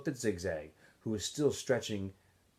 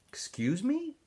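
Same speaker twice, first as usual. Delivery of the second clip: sharp; 14 semitones higher, slower than usual. Acted. Warden again, sharper.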